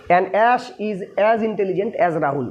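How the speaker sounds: very slow, word by word dictation. Shown as a demonstration. Teacher dictating the English sentence to students, very slow. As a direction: spell it out slowly for students to copy down. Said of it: "teacher reads English sentence aloud".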